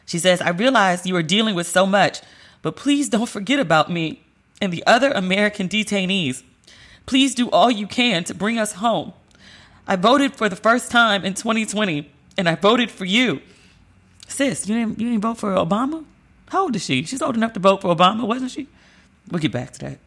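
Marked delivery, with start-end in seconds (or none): 0.4-13.4 reading a letter in a higher, tear-choked voice; fighting back real tears line by line; tearful reading. Real, not acted. Reading the detainee's letter aloud, tearfully. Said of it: "I can't even read the letter without crying". 14.3-18.7 high, disbelieving questions; can't believe she didn't vote; incredulous. Real, not acted. Reacting to the letter writer, high and disbelieving.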